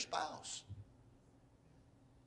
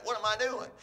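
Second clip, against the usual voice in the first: higher-pitched acted disbelief; incredulous realization; 5 semitones higher than usual. Spouse realizing the big mistake, incredulous. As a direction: question yourself in mock alarm, voice up.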